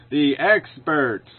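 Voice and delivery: slow, mocking repeat of the phrase; scornful echo; sarcastic. Real, not acted. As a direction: drag out the experts with contempt. Mocking the clip's term.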